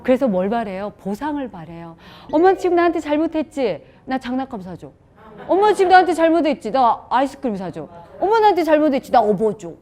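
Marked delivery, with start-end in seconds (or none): 2.3-9.7 put-on high, loud whiny child's demand; bratty high child voice asking for a toy. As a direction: play the kid cashing in on mom's guilt.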